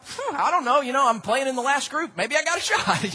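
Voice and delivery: laid-back, laughing golfer voice; easygoing golfer. Retold or imitated. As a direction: play the relaxed underdog chuckling. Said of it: "And he's like".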